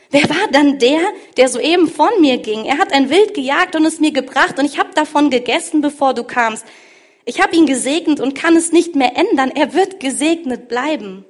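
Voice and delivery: the blind father realizes he's been tricked and cries out in alarm; shocked and frightened. A narrator's reading. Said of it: "begann Isaak vor Schreck heftig zu zittern".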